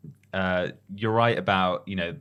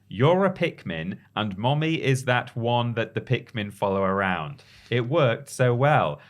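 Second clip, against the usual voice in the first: gentle mother voice; 4 semitones higher than usual. Retold or imitated. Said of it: "so I told him".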